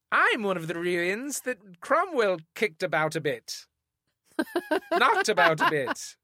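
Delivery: slow, high Cockney music-hall voice; saucy old-timey accent. Pretend. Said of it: "No, with the accent".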